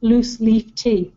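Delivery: slow careful oolong in Lancashire accent; drawn out Lancashire oolong loose leaf tea. Real, not acted. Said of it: "it's my Lancashire accent".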